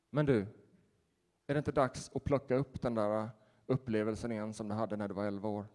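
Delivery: a hushed pastoral invitation; soft question. Retold or imitated. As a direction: ask it quietly and tenderly. Pastor gently confronts the man.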